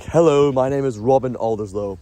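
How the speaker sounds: confident posh accent, lifted hello. Shown as a demonstration. Greeting someone with patient confidence, posh accent. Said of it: "I sound, like, so".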